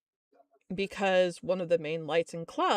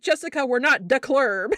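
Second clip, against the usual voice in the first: exasperated yell; 3 semitones higher, 7 dB louder than usual. Retold or imitated. Exasperated boss scolding on phone.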